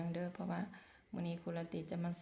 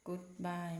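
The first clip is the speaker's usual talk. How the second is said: slow model phrase. Shown as a demonstration. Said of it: "teacher models phrase".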